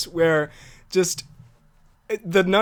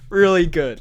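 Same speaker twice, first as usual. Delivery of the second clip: laughing protest; 3 semitones higher, 6 dB louder, slower than usual. Real, not acted. Laughing outburst in banter.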